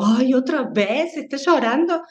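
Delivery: mildly exasperated, pitch lifting; a hint of a tired parent losing patience; impatient sigh. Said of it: "Con, con poca tolerancia".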